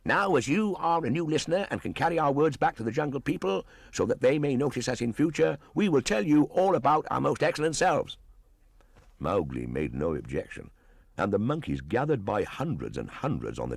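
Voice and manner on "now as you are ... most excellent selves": high, fast, loud chattering boast; boastful monkey shout. Acted. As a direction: crow about yourselves like a mob of monkeys. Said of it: "they shouted".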